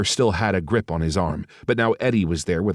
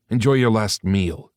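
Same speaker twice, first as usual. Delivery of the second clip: sneering; 3 semitones higher, 3 dB louder than usual. Acted. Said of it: "he sneered".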